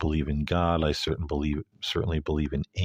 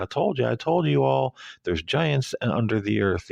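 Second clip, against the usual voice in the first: calm quote; 8 semitones higher than usual. Retold or imitated. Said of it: "she's very calm about it".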